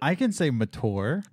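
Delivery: insist, MATURE as "ma-toor", trying not to smile; smiling. Real, not acted. Defending himself to a teasing co-host, smiling. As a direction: protest through a smile. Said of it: "You're smiling".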